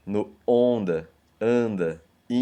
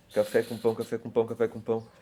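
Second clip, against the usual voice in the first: train rhythm; 3 dB quieter, faster than usual. Shown as a demonstration. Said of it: "o ritmo do trem fazendo".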